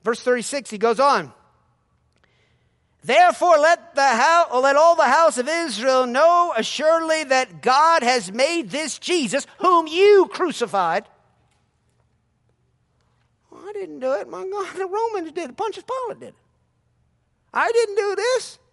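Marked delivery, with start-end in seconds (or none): 3.0-11.1 preaching at full force. Acted. Preacher reading Peter's sermon aloud to the church. 13.5-18.6 higher, whiny protest of innocence; defensive crowd member. Pretend. A listener denying he crucified Jesus, whiny.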